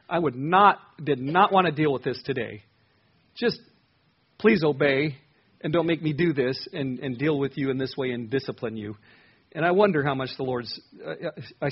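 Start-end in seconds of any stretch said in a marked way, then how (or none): 0.1-9.0 emphatic, louder plea with stressed key words; pleading parent. Acted. Parent begging a child to obey, pleading. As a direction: plead with real insistence.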